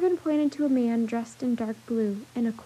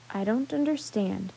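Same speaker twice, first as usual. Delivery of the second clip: deep, tired voice; 3 semitones lower than usual. Acted. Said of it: "he said in a deep, tired voice".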